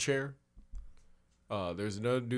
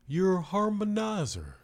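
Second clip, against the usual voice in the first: higher put-on voice, a touch louder; band guy voice; 7 semitones higher, 4 dB louder than usual. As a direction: boast about the band, lightly voiced. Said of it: "And he's like".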